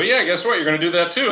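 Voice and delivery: spring the good news on the new hire; excited reveal. Retold or imitated. Owner telling a new hire they'll work for all three companies, excited. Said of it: "I go".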